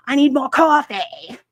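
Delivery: imitating a whinging customer asking for a refill; whiny customer. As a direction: whine the demand like a needy customer. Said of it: "friggin' whinges".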